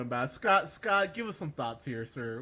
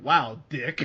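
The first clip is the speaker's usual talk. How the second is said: laughing mock outrage; 7 dB louder than usual. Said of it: "I was like".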